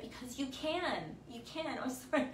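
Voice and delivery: tearful and tender, letting "You can" fade; getting teary. Real, not acted. Host tearing up telling her viewers they can do it, tearful. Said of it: "I'm a blubbering idiot".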